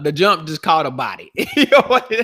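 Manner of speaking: cracking up while telling the joke; laughing. Real, not acted. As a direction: laugh through the words.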